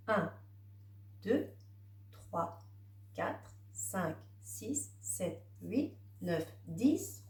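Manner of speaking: counting papillons under the breath, softly. Acted. Teacher counting butterflies for the child, soft and murmured. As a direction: murmur the numbers one by one as you point.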